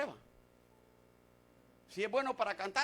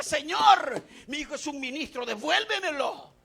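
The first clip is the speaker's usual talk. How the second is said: raised, high pleading shout, acted; retold desperate cry; 6 semitones higher, 12 dB louder than usual. Preacher retells father begging God for his son, acted crying out. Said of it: "le gritaba".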